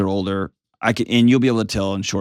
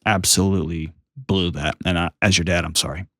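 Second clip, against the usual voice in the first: sincere apology; 4 semitones lower than usual. Shown as a demonstration. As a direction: own the mistake gently, eye to eye. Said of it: "get down on their level and say".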